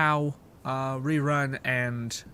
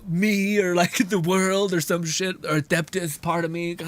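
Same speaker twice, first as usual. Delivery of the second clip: raised, mildly whiny meme victim; mock self-pitying lament; 3 semitones higher than usual. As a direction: act out a hammed-up wounded complaint. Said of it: "they're like".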